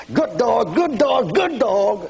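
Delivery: high, harsh mock scolding. Preacher acts out making his German shepherd cower, mock scolding. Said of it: "listening to the tone of my voice".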